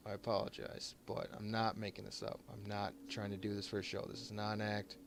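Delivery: quiet, choked-up apology; fighting back tears, softly. Real, not acted. Streamer thanking donors for charity, choked up and quiet. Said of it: "I'm getting a little choked up".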